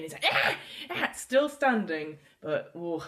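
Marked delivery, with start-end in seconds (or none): 0.3-1.1 short yelps of pain; hurt creature's yelp; pained cries. Acted. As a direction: cry out as if hurt. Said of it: "in pain".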